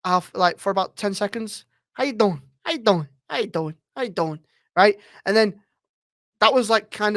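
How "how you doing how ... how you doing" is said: lightly voiced chilled gangster catchphrase; Carlo. Shown as a demonstration. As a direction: repeat it as a warm-up into a gangster voice. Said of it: "So to get into Carlo".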